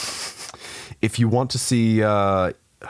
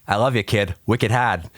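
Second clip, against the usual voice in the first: light mock Boston accent. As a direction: imitate a Bostonian, lightly overdone. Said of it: "said with a Boston accent".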